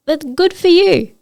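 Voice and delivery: mean it honestly, with lifted pitch; emphatic sincere approval; sincere, not sarcastic. Real, not acted. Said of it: "like, not sarcastically".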